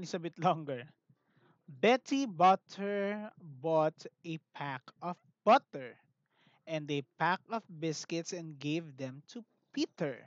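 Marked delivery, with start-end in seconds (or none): 1.7-10.2 rhyme recital. Shown as a demonstration. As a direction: model the tongue twister for the class. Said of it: "try this one".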